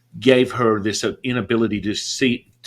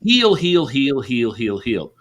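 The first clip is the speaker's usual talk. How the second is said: bland incantation; 2 semitones higher, 3 dB louder, slower than usual. Retold or imitated. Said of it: "very bland incantation".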